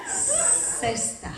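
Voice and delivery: high, soft mimicry of the word; baffled echo. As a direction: echo it softly in a high pitch, incredulous. She mimics husband's word, baffled.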